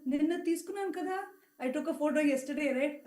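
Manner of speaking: a touch of a teasing elder; playful Swami imitation.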